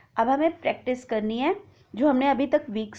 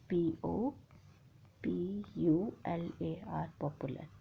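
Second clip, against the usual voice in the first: trailing quiet; 5 semitones lower, 14 dB quieter, slower than usual. Real, not acted. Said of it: "spelling out word quietly".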